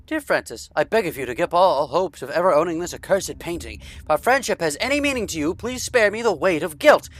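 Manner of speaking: brisk, crisply enunciated Mid-Atlantic reading of a letter; quick, theatrical Mid-Atlantic letter reading; Mid-Atlantic accent. Acted. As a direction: read the letter like an old-time Mid-Atlantic radio voice. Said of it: "we need to bring back the Mid-Atlantic accent".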